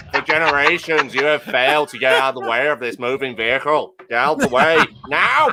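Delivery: declamatory political-preacher oratory; Ian Paisley. Acted. Truck warning berating pedestrians as Ian Paisley, oratorical impression. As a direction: thunder a grand accusation, stressing the final word. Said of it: "It should be Ian Paisley".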